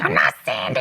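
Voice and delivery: imitating an annoyed child's protest; mock-indignant denial; mad niece. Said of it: "And she got mad".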